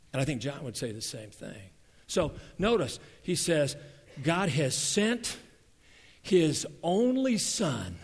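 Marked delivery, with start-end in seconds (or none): 4.2-8.0 slow, leaning hard on "only"; quoting scripture slowly, "only" stressed. Shown as a demonstration. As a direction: draw out "only" in "his only son". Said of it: "The emphasis on the word only".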